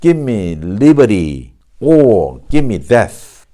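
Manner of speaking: slow, deliberate American model line; measured American reading, each phrase set apart; American pronunciation. Shown as a demonstration. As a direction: say it the American way, "gimme" and flapped "liberty". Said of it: "미국식 발음으로 한다면".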